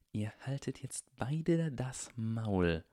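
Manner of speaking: slow growl through gritted teeth. A narrator's reading. Draco growls at his henchmen to shut up, through gritted teeth. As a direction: bite it off, barely holding back. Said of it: "knurrte Draco durch zusammengebissene Zähne".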